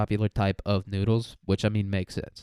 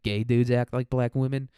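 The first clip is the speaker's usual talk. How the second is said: normal talking voice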